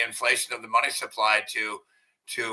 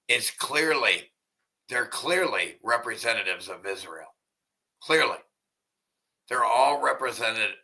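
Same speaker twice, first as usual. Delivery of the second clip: lips over teeth. Real, not acted. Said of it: "Hard to talk with no teeth".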